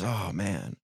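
sighing. Acted. Wife at the computer, sighing to herself. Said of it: "she sighs and goes".

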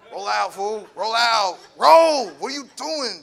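a buddy frantically hustling his friend out; mock urgent shout. Homeboy urging him to leave.

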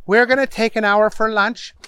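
judge's mildly fed-up announcement; weary judge. A narrator's reading. Tired judge dismissing court for lunch, mildly exasperated. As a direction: call the recess with worn patience. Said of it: "The judge was getting very, very tired".

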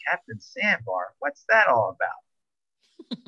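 slow, bewildered repeat of the nickname; puzzled. Retold or imitated. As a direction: drag it out, baffled. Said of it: "And I'm like".

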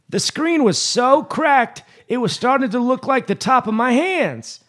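put-on very high, slow, ancient old lady voice; very old woman. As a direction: play a hundred-year-old woman. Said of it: "Use very old woman voice".

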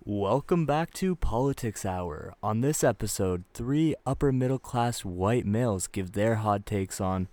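slow, deliberate show-opener delivery; mock podcast intro. Host opening a politics hour, slow announcer intro.

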